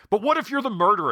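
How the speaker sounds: high, quick challenge; retold argument. Film characters argue over the key, retold argument. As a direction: throw the accusation back. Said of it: "back and forth and they argue".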